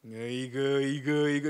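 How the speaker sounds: 에이그 이그 이그 clucked in mock disapproval; a lightly acted exasperated tut; tsk-tsk scolding. Shown as a demonstration. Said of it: "이렇게 하시겠어요?".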